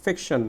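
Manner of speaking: ফিকশন with a firm "fik"; stressed first syllable. Shown as a demonstration. Teacher showing students the stress, firm "fik" in ফিকশন. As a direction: press on the start of ফিকশন. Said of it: "একটু জোরে উচ্চারণ করতে হচ্ছে".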